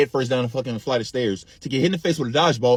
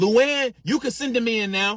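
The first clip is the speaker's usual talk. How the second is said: put-on very high carrying yell; 9 semitones higher than usual. Retelling a teacher calling someone in from down the hall: imitating someone yelling down a hall. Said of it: "she yells down the hall".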